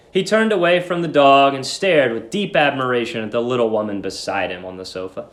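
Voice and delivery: normal talking voice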